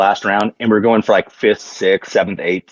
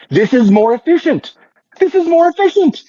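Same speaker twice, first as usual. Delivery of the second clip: much higher, laughing, giddy pitch; excited high pitch. Retold or imitated. Pitching his card shuffle to the German team, giddy high laughing voice. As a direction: squeal it out, half laughing with glee.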